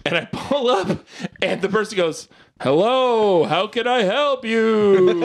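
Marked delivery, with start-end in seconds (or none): 2.6-5.2 a hint of a slow ghostly drive-thru voice; lightly voiced ghost, slow. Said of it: "who was doing ghost voice".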